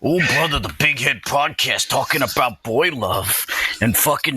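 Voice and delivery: lightly voiced wrestler promo; a hint of a gravel-throated wrestling promo; Macho Man Randy Savage. Podcast host mimicking a wrestler's intro, lightly voiced. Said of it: "the Macho Man Randy Savage".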